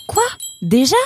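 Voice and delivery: surprised, punchy outburst; startled exclamation. Acted. Roxane caught out by the early doorbell, exclaiming. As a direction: exclaim in disbelief. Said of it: "s'exclama Roxane".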